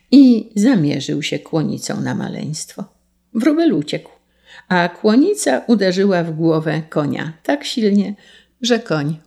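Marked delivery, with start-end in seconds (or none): none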